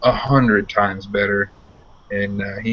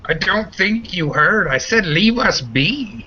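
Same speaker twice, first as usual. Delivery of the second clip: firm warning; 10 semitones higher than usual. Acted. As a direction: make them hear it this time. GM voice repeats the warning firmly.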